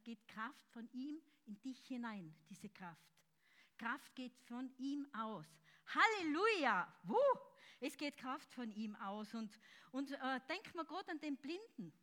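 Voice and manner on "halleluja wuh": loud, high hallelujah and whoop; shouted hallelujah into a whoop; ecstatic praise shout. Real, not acted. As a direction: cry out in joy to God. Preacher erupting in praise.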